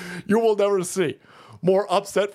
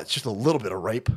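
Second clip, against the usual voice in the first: lower, fast shrug-off; mock dismissive leftist; 10 semitones lower, 4 dB quieter, faster than usual. Host mocking leftists, low and dismissive. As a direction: toss it off carelessly.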